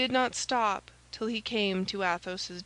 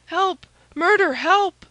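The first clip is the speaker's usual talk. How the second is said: high screaming cries for help, much louder; terrified cry for help; 10 semitones higher, 11 dB louder, slower than usual. A narrator's reading. Frightened lackey screaming for help at an armed stranger, high and loud. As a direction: shriek it as if facing an assassin. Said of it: "cried he".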